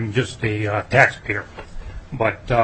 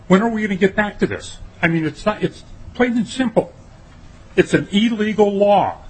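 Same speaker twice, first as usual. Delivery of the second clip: indignant outburst; 6 semitones higher than usual. Real, not acted. Testifier protests illegal law.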